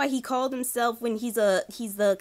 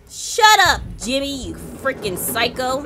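angry retort; 6 dB louder than usual. Real, not acted. Yelling at villain.

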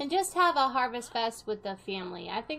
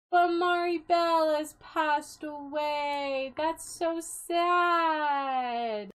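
mock sadness; 3 semitones higher, much slower than usual. Mock mourning dead sim.

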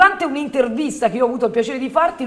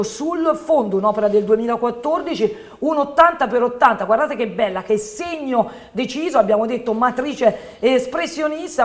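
infomercial. Acted.

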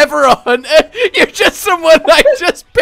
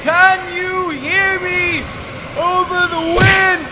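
shouting over wind. Pretend.

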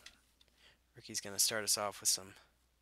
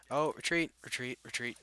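urgent raised call to retreat; 3 semitones higher, 4 dB louder than usual. Acted. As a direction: shout the order to fall back. Ordering troops to fall back.

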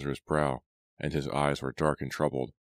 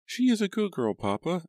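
put-on very high little-girl voice; eager interruption; 4 dB louder than usual. A narrator's reading. Abigail vouches for her friend to Papa, eagerly. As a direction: cut in eagerly, pitched way up. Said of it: "Abigail interrupted, her eyes shining".

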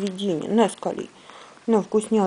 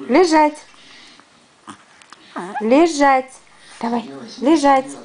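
твёрдые команды собаке; 6 semitones higher than usual. Real, not acted. Insisting the dog lies down.

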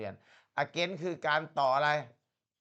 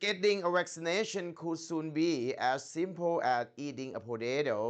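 very slow, careful read-aloud of English text; slow textbook reading demo; model reading; much slower than usual. Shown as a demonstration. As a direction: read it word by word for the student to copy. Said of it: "ครูอ่านหนึ่งรอบ มาร์คต้องอ่านตามครูได้".

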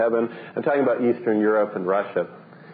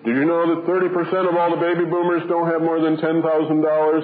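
lightly voiced junk-mail ad, a touch higher; mock sales pitch; 5 semitones higher than usual. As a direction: read it like a pushy retirement flyer. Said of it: "And it's saying".

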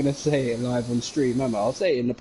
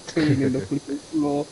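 laughing high; 13 semitones higher than usual. Real, not acted. Laughing through story.

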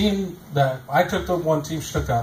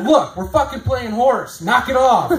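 higher, louder laughing complaint; laughing protest; 6 semitones higher, 3 dB louder, slower than usual. Retold or imitated. Comic complaining to girlfriend mid-game, laughing and louder. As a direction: protest slowly through laughter.

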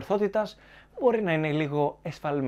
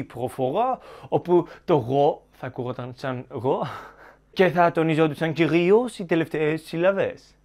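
demonstrating a French accent. Shown as a demonstration. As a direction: mimic a French accent with last syllables stressed. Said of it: "ένας Γάλλος, κατά πάσα πιθανότητα, θα μιλούσε".

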